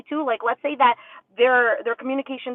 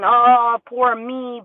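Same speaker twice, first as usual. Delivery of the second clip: mock self-pity; 5 dB louder, much slower than usual. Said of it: "you could be stuck in".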